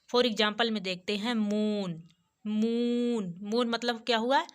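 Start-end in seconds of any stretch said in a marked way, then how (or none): 2.4-3.3 मून with a long, held "oo"; teacher drawing out the oo in मून; long vowel. Shown as a demonstration. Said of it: "long sound based".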